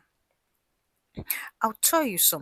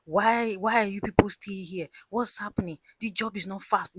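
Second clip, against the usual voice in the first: louder, higher mock telling-off; retold scolding shout; 3 semitones higher, 7 dB louder than usual. Wife shouting at the site engineer, retold scolding shout. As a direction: act out a boss scolding the workers. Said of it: "shouting at the, the site engineer".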